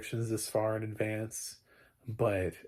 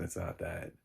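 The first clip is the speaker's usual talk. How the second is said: usual speaking voice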